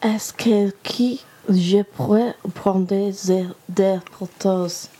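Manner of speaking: careful attempt at a French accent; best French accent. Shown as a demonstration. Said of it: "best French accent, foot forward".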